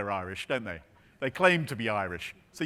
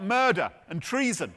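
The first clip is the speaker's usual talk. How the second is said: raised, higher-pitched mock shout; retold shout; 5 semitones higher than usual. Telling how the keeper shouted out, mild mock shout. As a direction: call it out in mild mock alarm. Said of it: "he shouted out".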